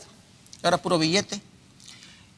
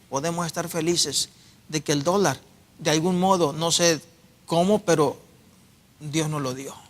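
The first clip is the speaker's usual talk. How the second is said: softer, intimate testimony; 3 semitones lower, 4 dB quieter than usual. Acted. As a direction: lower the voice, share it personally. Quiet testimony after preaching. (testimonio suave e íntimo)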